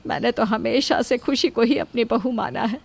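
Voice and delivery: ordinary delivery, nothing marked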